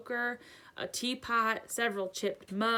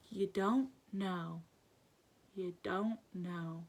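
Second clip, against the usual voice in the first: slow, softening disbelief; bewildered; 6 dB quieter, slower than usual. A narrator's reading. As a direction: trail into quiet astonishment. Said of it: "with a bewildered stare".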